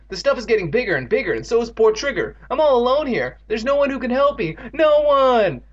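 high-pitched despairing lament; wailing. A narrator's reading. Boy all alone with the problem, wailing. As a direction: build to a loud, helpless wail. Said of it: "Evan wailed".

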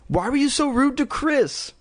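put-on high-pitched girlish scolding. A narrator's reading. Girl questioning her dummy about the slap, scolding.

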